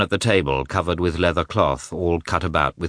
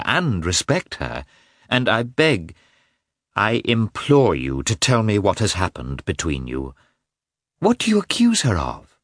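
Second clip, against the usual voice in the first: higher, imploring woman's voice rising to a cry; Dolly pleading; 3 semitones higher than usual. Acted. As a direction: beg him, climbing to a high anguished question.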